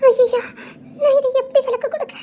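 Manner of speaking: tearful, breaking voice; crying as she tells him. Acted. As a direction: choke the words out through tears. Woman crying while confessing news.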